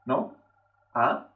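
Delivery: "¿No?" and "A" rising from low; second tone. Shown as a demonstration. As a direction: slide "¿No?" and "A" upward like questions. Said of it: "se nota una subida".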